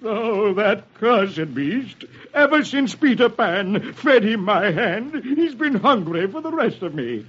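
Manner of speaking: high, slow menacing pirate growl; a villain cursing the crocodile; snarling pirate captain. Acted. Hook snarls at Smee about the crocodile. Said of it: "Hook snarls".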